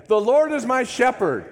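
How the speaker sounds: rousing call-and-response shout; building declaration. Real, not acted. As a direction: lift the crowd with each repeat. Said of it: "Say it with me again".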